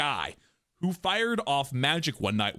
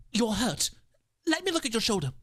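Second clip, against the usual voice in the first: higher voice, acted concern; concerned story character; 6 semitones higher than usual. One character tending another's hurt shoulder, concerned. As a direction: voice a worried character checking an injury. Acts the story's first speaker.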